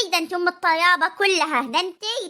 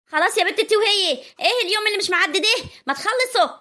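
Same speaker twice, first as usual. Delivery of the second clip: exasperated raised voice; 5 semitones higher than usual. Acted. Aunt to quarrelling daughters-in-law, exasperated and raised. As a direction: snap at them to stop, pitch rising.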